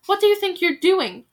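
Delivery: loud, hard demand; angry challenge. Acted. Bald veteran scolding the villagers, loud anger. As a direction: call them out for their folly. Bald man berating the crowd.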